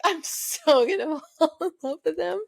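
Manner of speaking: high, laughing, giddy quote. Retold or imitated. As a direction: squeal it through a laugh like a smitten girl. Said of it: "I was like".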